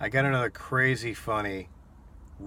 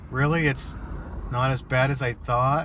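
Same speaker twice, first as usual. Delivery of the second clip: higher, louder hopeful question; retold surprise; 4 semitones higher, 4 dB louder than usual. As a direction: imitate someone surprised by good news. Retold customer hearing good news.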